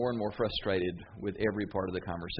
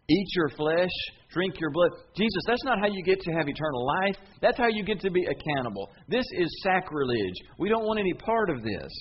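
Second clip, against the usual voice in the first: outraged crowd; 5 semitones higher than usual. Retold or imitated. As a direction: scoff at the idea, appalled. Crowd outraged at cannibal talk.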